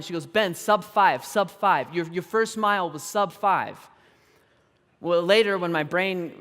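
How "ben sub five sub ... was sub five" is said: mildly voiced excited teammate, a bit louder; pumped retold shout. Teammate tells a runner his first mile time, mock excited shout. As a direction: imitate a super pumped shout, held back. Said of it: "she keeps shouting".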